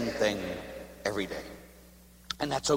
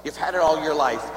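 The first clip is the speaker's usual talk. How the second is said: usual speaking voice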